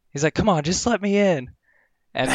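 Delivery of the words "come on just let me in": higher, insistent plea to be let in; mock pushy demand. Dog owner at the buzzer, a mock insistent demand. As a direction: press hard to get in. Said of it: "getting all mad".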